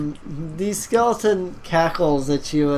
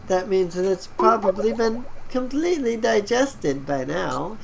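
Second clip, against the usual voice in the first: skeleton voice; 5 semitones higher than usual. Acted. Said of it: "the skeleton cackles at you and says".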